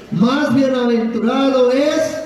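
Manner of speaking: "Más bienaventurado es" slow, rising to the last word; cue to complete. Shown as a demonstration. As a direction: hang on "es" for the crowd to finish. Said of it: "pero usted va a completar". ("Más bienaventurado es" lento, subiendo en "es")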